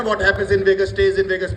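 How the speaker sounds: slow quoted saying. Retold or imitated. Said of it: "कहते हैं ना".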